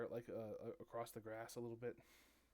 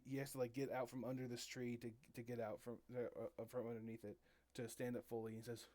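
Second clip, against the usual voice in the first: usual speaking voice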